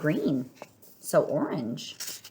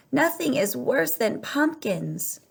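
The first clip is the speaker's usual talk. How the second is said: groaned; 7 semitones higher, slower than usual. A narrator's reading. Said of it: "groaned the townspeople".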